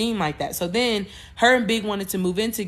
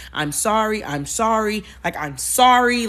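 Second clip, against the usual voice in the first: repeated retold apology, growing more insistent; pleading apology. Groom begs the irate bride, pleading apology. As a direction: plead a little harder each time, drawing out the last.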